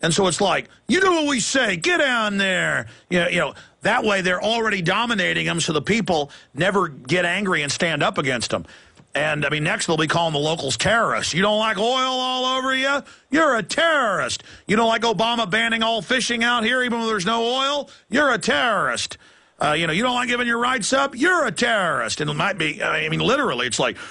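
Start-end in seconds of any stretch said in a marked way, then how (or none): 0.9-2.9 bossy thug. Retold or imitated. Bossy BP men, mocked. 11.3-22.2 sneering mock accusation. Mocking officials branding locals terrorists.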